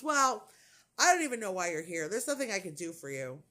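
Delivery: imitating a curt, dismissive doctor; nasty doctor. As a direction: punch the opening word, then rush through dismissively. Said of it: "this guy was so nasty".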